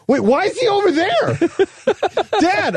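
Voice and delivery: put-on high, puzzled kid voice; imitating Jack. Dad imitating son Jack.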